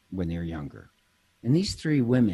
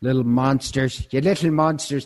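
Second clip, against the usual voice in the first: a hammed-up Irish scold, a bit higher and louder; mock Irish accent; 4 semitones higher, 6 dB louder than usual. Scolding the chocolate-stealing kids, mock Irish accent. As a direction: play the Irish nun scolding the little monsters in a mock Irish accent. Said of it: "take on the Irish accent".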